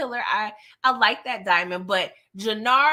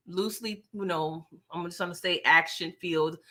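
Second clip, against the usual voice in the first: sarcastic air quotes; 4 semitones lower, 4 dB quieter than usual. Real, not acted. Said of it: "air quotes".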